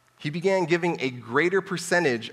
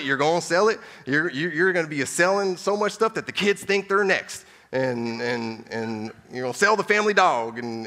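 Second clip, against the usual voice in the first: hammed-up Dave Ramsey accent, higher and louder, building; 4 semitones higher, 5 dB louder than usual. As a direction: Dave Ramsey accent ordering a caller to sell everything. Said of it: "I don't know if I'm doing his accent".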